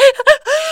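high, sharp gasp; shocked gasp. Retold or imitated. Hearing who the woman's son is, shocked gasp. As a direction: gasp as if floored by news. Retold shock at son's name.

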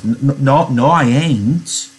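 mildly earnest, stammering denial. Acted. Lenny denying to Curly's wife that he's nuts, earnest. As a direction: stammer it out, drawn out and sincere. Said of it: "Lenny explained earnestly".

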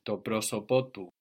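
"prosopotu" with accent on SO and again on PO, pro-SO-po-PO-tu; rise on the end. Shown as a demonstration. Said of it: "we come up again on the end".

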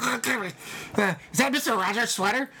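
high, startled mock gasp of dismay; mock shock. Mock shocked reaction in retelling.

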